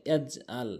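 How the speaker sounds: low ইয়াজআল with unbounced j and plain hamza; common mispronunciation. Shown as a demonstration. Teacher repeating most people's mistake, plain ইয়াজআল. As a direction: drop ইয়াজআল lightly, no throaty ain. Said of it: "অধিকাংশ লোক আলাম ইয়াজআল বলে".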